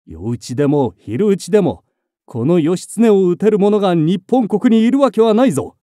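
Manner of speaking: booming battle shout; loud war cry. Acted. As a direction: roar it at the attackers. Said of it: "大音上を上げた".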